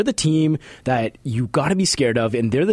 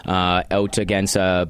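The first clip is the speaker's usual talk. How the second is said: choking on spit; 2 semitones lower than usual. Real, not acted. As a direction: voice catching on a swallow. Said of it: "choking on my own spit there".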